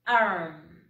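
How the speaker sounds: Arm repeated slowly in English. Shown as a demonstration. Teacher repeating Arm for children to copy. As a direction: model Arm again for the kids. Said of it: "Again, de nuevo".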